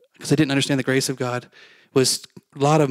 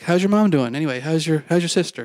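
brightly raised, chatty small-talk questions; casual small talk; 2 semitones higher than usual. Retold or imitated. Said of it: "just started making small talk".

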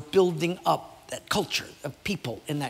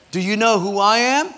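louder, higher cheeky comeback; mock challenge; 5 semitones higher, 9 dB louder than usual. Usher turning the pastor's mother's words back, louder and cheeky. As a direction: throw her line back at her. Usher turns tables on lady.

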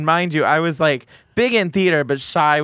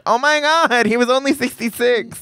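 mock shock; 9 semitones higher than usual. Hearing the Batman voice actor died, high shocked cry. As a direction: cry out at the news. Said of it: "and I was like".

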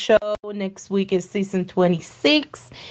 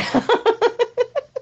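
villain laugh. Acted. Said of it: "the laugh was everything".

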